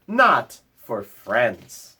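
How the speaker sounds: slow, falling and gentle; slow reassurance. Acted. Bear gently tells the mouse the sign isn't for friends. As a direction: settle it kindly.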